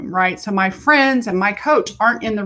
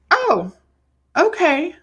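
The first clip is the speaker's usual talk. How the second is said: relieved after crying; 7 semitones higher, slower than usual. Retold or imitated. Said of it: "it was like".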